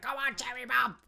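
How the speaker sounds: high, loud mock plea; desperate urging. Player urging a cherry bomb to recharge, acted desperate cry. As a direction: urge it on in playful desperation. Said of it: "if you're desperate for cherry bomb".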